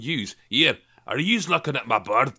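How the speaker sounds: lightly put-on Scottish accent; Scottish challenge, leaning on "yous". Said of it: "I'd have gone".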